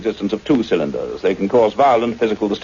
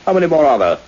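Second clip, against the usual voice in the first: stunned, demanding more; astonished; 7 semitones higher, 3 dB louder than usual. Acted. Scientist shocked at how many cuttings the journalist has, astonished. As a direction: pitch jumps high in disbelief.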